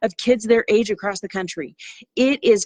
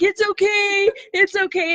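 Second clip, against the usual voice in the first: much higher, a lightly voiced child soothing a friend; comforting kid; 10 semitones higher than usual. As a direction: mimic a little boy consoling his crying classmate. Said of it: "The kid next to him is literally going like this".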